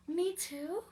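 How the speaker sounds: whispered Me too; hushed hopeful question. Acted. Anna asks the librarian, whispering shyly. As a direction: breathe it out shyly, hoping.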